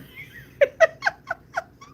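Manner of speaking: high, squeaky burst of laughing; real uncontrolled high laugh; helpless laughter. Real, not acted. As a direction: crack up in high-pitched peals. Cracks up at nephew's line.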